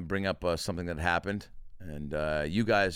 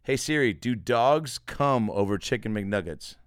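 slow voice command; 2 semitones higher, 5 dB louder than usual. Shown as a demonstration. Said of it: "here we go. Ready?".

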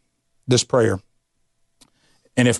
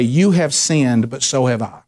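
humble confession. Shown as a demonstration. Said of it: "Humility is when you go to someone and say".

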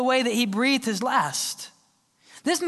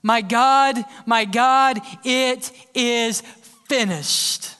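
louder, ringing cry; 4 dB louder, much slower than usual. Acted. Jesus shouting on the cross, louder ringing cry. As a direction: proclaim it from the cross. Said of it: "with a loud voice".

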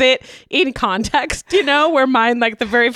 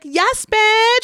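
put-on high little-kid cheer; toddler cheer; 10 semitones higher than usual. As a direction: squeak it like a proud three-year-old. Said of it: "she's like".

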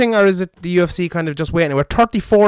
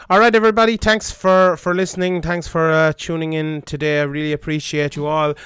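hungover. Real, not acted. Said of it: "I apologize for my hungover, uh, shitty voice".

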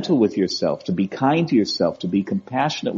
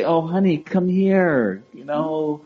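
put-on higher, slower soothing voice to a hurt child; gentle parent cooing, higher and slow; tender comforting parent; 4 semitones higher, slower than usual. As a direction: comfort a little one who scraped a knee. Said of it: "you're gonna say".

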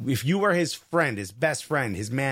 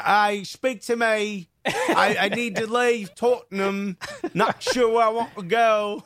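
bad English accent; 4 semitones higher than usual. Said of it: "a terrible English accent".

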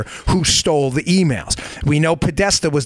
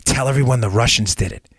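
mock Democrat scheming; 3 semitones lower, faster than usual. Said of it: "This is what the Dems are telling".

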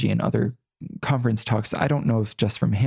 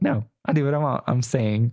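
sassy. Retold or imitated. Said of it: "my little sassy side".

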